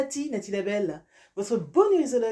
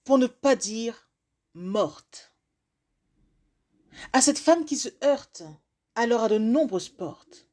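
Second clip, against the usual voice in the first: measured recitation with long pauses; spoken-word poem. Acted. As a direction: deliver it as a rhymed address, phrase by phrase. Recites a written rhyming piece.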